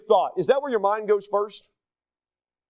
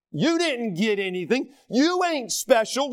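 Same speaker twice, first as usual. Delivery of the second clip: Southern twang. Shown as a demonstration. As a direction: drop into a playful Southern accent. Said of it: "Excuse my Eng-, uh, Southern".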